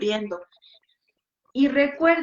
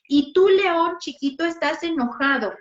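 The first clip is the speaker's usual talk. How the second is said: playful lion game; 4 semitones higher, 4 dB louder than usual. Shown as a demonstration. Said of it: "vamos a jugar a que somos leones".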